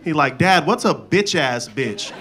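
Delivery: ordinary talk, nothing marked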